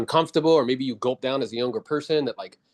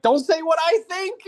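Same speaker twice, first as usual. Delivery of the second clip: high and slow, slightly louder, mocking disbelief; mock high-pitched protest; 4 dB louder, slower than usual. Coach mocking his own reaction.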